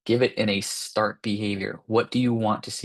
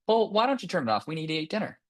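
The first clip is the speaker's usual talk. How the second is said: put-on higher, coaxing negotiation with the kid; pleading parent; 8 semitones higher, faster than usual. Parent negotiating with child over tablet, coaxing. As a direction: wheedle the child into agreeing. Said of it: "So then I start to tell them".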